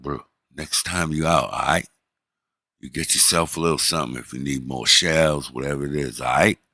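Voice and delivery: low, mock-gangster instructions; playing gangster. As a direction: act like a gangster slipping advice to an accomplice. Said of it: "we're playing gangster".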